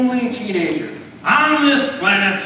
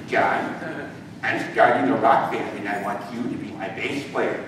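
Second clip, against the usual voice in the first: lower, softer nerdy friend voice; 6 semitones lower, 4 dB quieter than usual. Acted. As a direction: mumble like an eager nerd. Nerd friend speaks at lunch.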